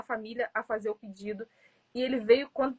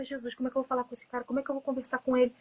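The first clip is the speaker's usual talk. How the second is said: nervous self-talk; faster than usual. Retold or imitated. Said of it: "Eu falava".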